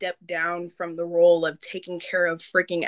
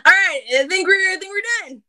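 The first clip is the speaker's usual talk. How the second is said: high, loud laughing through words; 11 semitones higher, 6 dB louder than usual. Real, not acted. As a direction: laugh while wrapping up. Laughing at friend's goodbye.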